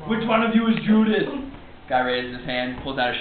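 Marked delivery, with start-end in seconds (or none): 0.1-1.3 action-star impression; Arnold Schwarzenegger. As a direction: imitate an action hero on a rescue mission. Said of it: "just sounds like Arnold Schwarzenegger".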